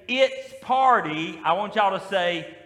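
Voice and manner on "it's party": drawn-out call of IT'S PARTY; slow, loud call for the response; call line. Shown as a demonstration. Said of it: "Every time you hear me say".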